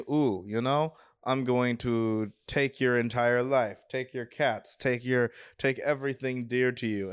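lightly imitated Russian-accented villain; slight Russian accent. Stepdad threatens to take everything, slight mock Russian accent. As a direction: put on a hint of a Russian accent. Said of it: "a slightly Russian accent".

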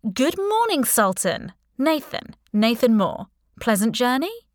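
lightly voiced jaunty greeting; a hint of mock hospitality; breezy captor. A narrator's reading. Captor mockingly greets hooded captive.

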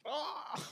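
high, soft "ah" noise; small mock gasp of air; imitated burp release. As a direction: mimic letting it out quietly. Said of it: "so now I'm just like".

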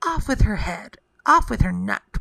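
mild storybook outcry; understated prince's outcry; cried out. Acted. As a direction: cry it out as a royal order, held back. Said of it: "The prince cried".

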